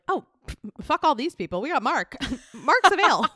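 high, loud, giddy mock cheer; gleeful casting directors; casting team thrilled. Casting team dumping everyone for Mark, giddy and high. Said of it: "And they were like".

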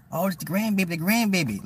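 mock the family gushing over the baby; mocking relatives cooing over the grandbaby. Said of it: "they be like".

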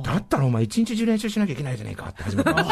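laughing. Retold or imitated. Neighbor's gruff reply, then laughter.

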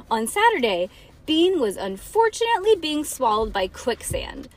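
put-on dramatic read-aloud for children; story narration. A narrator's reading.

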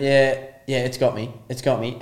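retold cool-as-a-cucumber calm; understated, matter-of-fact acknowledgement; Steve Irwin. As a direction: imitate someone totally unbothered by a bite. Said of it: "as cool as a cucumber".

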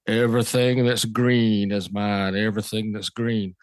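Southern drawl. Retold or imitated. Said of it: "in his Southern drawl".

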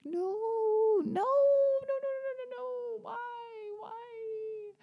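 high, fading wail into a fake cry; hammed-up despair at losing her; mock wailing. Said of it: "I was like".

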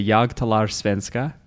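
"Jag talar svenska" said slowly in Swedish; Swedish phrase. Shown as a demonstration. Showing the podcast hosts a phrase, slow Swedish. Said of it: "I could say".

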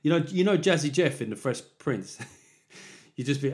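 normal talking voice

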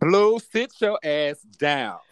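slow stern mother voice; a hint of a stern mom scolding. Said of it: "I need to hear her saying".

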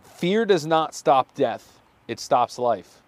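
slow, unpowered quote reading; quote read slowly. Real, not acted. Host reading the weekly quote, slow and flat. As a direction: read the mantra slowly, not much punch. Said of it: "the way you read it wasn't so powerful".

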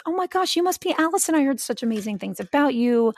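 mock sweet girlfriend voice; new girlfriend's gushing hello. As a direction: gush like meeting someone famous. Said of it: "she goes".

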